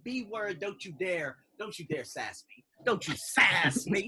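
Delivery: mock-indignant telling-off, drawn out at the end; nineteen fifties black sass. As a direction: scold in a put-on fifties Black idiom. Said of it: "that black come out of me like that nineteen fifties black".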